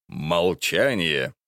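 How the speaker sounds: slowly drawn out echo; slow drawn-out quote. Retold or imitated. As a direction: stretch the word out. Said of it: "вы сказали".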